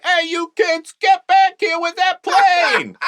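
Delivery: put-on high shouted yell at kids; angry airport guy. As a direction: bark it at the kids like a security guard. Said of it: "that's my audition reel".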